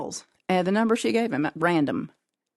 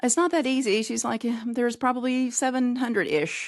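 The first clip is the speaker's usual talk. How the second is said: lightly voiced operator; 6 semitones higher than usual. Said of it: "And she said".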